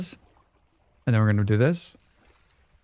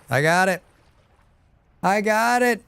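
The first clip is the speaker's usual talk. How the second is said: building excitement; 7 semitones higher than usual. Real, not acted. Fixing water leak succeeds.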